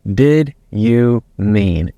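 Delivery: Did drawn out slowly, each word spaced; slow, deliberate question. Shown as a demonstration. Coach demonstrating the key question, slow and even. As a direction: ask "Did you mean?" very slowly. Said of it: "you use the question".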